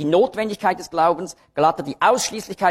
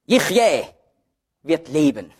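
"Yichye" set apart by pauses, then its translation falling; accent on Yichye; 2 semitones lower than usual. Shown as a demonstration. Preacher showing the Hebrews accent, stress on "Yichye". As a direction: isolate and press "Yichye", then translate calmly. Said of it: "jedes Mal wird der Akzent auf ein anderes Wort gelegt".

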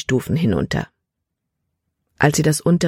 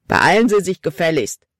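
impatient, demanding complaint; ungeduldige Beschwerde. A narrator's reading. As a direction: hurry him along, annoyed. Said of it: "die Ungeduld in seiner Stimme". (ungeduldig und fordernd)

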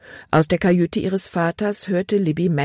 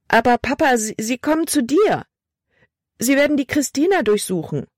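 put-on a frightened young girl, pitched high and pleading; lightly voiced girl begging her father; anxious girl; 9 semitones higher than usual. A narrator's reading. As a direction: plead with Papa, voice lifted in worry.

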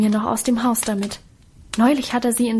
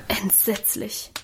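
slow, much softer sigh; 7 dB quieter, slower than usual. A narrator's reading. Adele sighing at her friend's troubles, slow and soft. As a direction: breathe the word out like a sigh. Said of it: "seufzte Adele".

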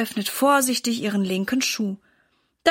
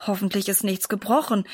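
worried; 2 semitones lower than usual. Acted. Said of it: "meint Papa besorgt".

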